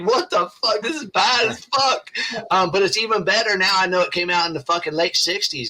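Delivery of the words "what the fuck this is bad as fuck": high, excited disbelief; amazed exclamation. Retold or imitated. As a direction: blurt it out in amazement. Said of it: "I was like".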